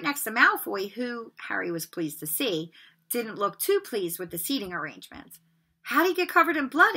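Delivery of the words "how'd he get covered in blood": higher, eager question; great interest. A narrator's reading. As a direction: lean in, fascinated. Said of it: "asked Seamus with great interest".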